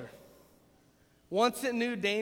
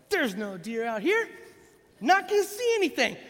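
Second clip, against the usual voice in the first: grumbled complaint; 5 semitones higher, 4 dB louder than usual. Retold or imitated. Grumbling alone in deer stand.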